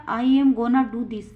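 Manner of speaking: slow, clear example for students; teacher reading it out slowly to the class; slow model sentence. Shown as a demonstration. Teacher models the sentence, slow and clear. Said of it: "example क्या?".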